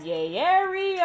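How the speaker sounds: loud hometown cheer, rising high; Jamie Foxx. Retold or imitated. Jamie hearing she's from the Bay, loud mock cheer. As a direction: call it out long and loud, imitating him.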